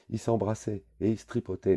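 high, loud telltale cry; a kid snitching at full voice; loud childish accusation; tattling yell. A narrator's reading. Boy tattling loudly.

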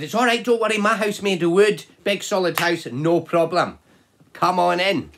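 high, loud little pig voice, cheerful; a chirpy piglet brushing off worry; second little piggy. Acted. Second piggy welcoming his brother, high piggy voice.

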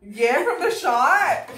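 laughing. Real, not acted. Laughing about the shot.

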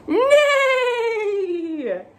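put-on neigh like a horse for the kids. Horse sound in kids' book.

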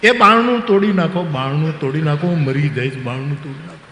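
hammed-up cry for help; shouting from inside the room; retold shout for help. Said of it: "અને રાડ પાડ્યો".

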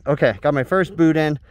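breathless from climbing; winded, panting between words; out of breath. Real, not acted. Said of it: "I'm out of breath".

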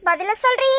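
irritated mother-in-law demanding an answer; testy interrogation; cross, impatient. Acted. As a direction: press crossly for a reply. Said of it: "ஏன் அத்தை இப்படி கோவப்படுறீங்க?".

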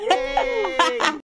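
very high, loud cheer; loud high-pitched whoop; excited squeal. Real, not acted. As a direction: squeal a long celebratory yay. Cheering the reunited siblings.

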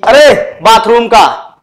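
slow, emphatic mock scolding; mock anger. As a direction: play at being cross, leaning on the first word. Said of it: "इतना मैंने गुस्से में बोला". (बनावटी गुस्से में, धीमे और ज़ोर देकर)

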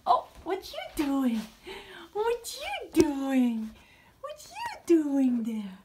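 slow drawn-out pet talk; cooing at the bird. Real, not acted. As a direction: stretch it out fondly to the bird.

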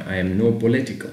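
slow, questioning read; slow demo of wrong answer. Shown as a demonstration. Teacher to students, trying the wrong answer slowly. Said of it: "مش ينفع صفة".

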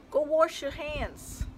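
slow, with wash said as warsh; demo of warsh. Shown as a demonstration. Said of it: "Is that how you say wash?".

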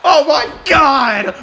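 high loud excited play-by-play; excited shouting. Real, not acted. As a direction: shout the big moment. Huge power bomb.

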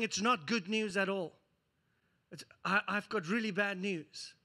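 low, soft, heavy-hearted doctor; a doctor softly breaking hard news to a patient; grave bad news.

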